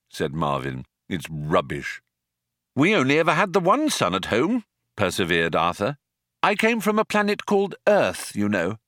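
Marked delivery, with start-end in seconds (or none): 1.1-2.0 low, dismissive robot drone; gloomy robot. Acted. Marvin dismisses the sunset. 2.7-4.6 raised persistent voice; eager Arthur. Acted. Arthur perseveres. 6.4-8.8 raised persistent voice; eager Arthur. Acted. Arthur boasts of Earth.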